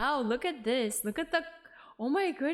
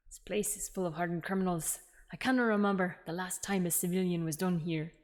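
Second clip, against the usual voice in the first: attempted Scottish accent, lower pitch; rough Scottish accent; 3 semitones lower than usual. Prison governor grumbling about hardened criminals, rough Scottish accent. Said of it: "I can't do a Scottish accent".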